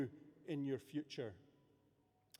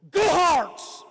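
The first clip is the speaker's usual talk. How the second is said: high, loud rallying shout of "Go Hearts!"; 13 semitones higher, 18 dB louder than usual. Shown as a demonstration. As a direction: yell "Go Hearts!" like a cheer. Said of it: "go up to them and go".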